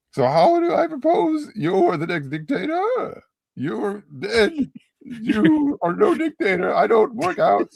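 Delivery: put-on slight French accent. Reader slipping into French while reading Steve, accidental French accent. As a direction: read Steve with a French lilt creeping in. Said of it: "You're turning slightly French".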